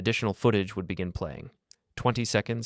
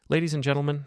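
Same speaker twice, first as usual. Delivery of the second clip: higher-pitched opening to an audience; podium address; 7 semitones higher, faster than usual. A narrator's reading. Administrator welcomes guests to charity gala, podium address. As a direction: open a formal speech, pitched up.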